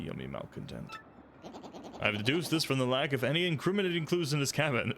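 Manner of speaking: lightly voiced pompous sleuth; a hint of a smug investigator; generic inquisitive detective. Detective penguin lecturing the player, lightly pompous. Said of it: "doing my best, like, generic inquisitive person".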